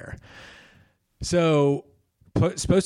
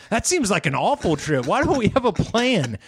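mock objection; 7 semitones higher than usual. Son objecting to trip in retelling.

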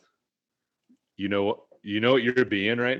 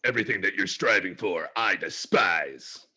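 overacted anime dub. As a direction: drag out the hatred, anime style. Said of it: "Sound like Bakugo".

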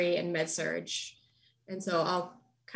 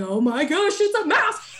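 startled realization; 8 semitones higher, 6 dB louder than usual. Retold or imitated. Discovers mouse in bed.

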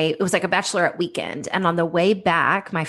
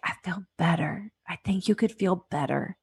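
gentle reply; 6 dB quieter than usual. Retold or imitated. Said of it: "She was like".

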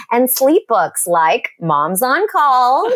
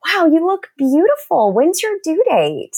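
high, gushing friendly admiration; upbeat, admiring small talk; complimentary; 7 semitones higher than usual. Shown as a demonstration. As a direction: model a sweet compliment to an expectant mother. Models kind remark to pregnant woman.

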